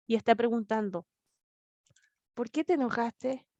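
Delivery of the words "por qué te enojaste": softer, gentle questioning; loving confrontation. Retold or imitated. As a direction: ask kindly, like a caring father. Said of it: "Dios está confrontando amorosamente". (Dios pregunta a Caín con cariño, suave)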